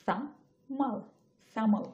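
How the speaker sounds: "thermal" with no r sound after the vowel; thermal without r. Shown as a demonstration. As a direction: say "thermal" and leave out the r. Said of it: "আর pronounce করতেছি না". ("thermal" র উচ্চারণ ছাড়া)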